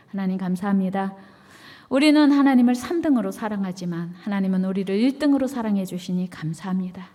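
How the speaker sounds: earnest closing prayer voice; solemn prayer. Acted. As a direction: pray it sincerely before the congregation.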